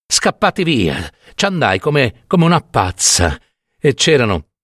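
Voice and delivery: lightly voiced anguished old storyteller; an old woman insisting on what she saw; distressed old peasant woman. Old peasant woman confiding horrors to the doctor, distressed.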